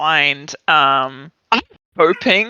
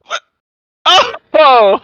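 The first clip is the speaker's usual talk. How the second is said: surprised; 10 semitones higher, 8 dB louder than usual. Real, not acted. Surprise at the dice roll.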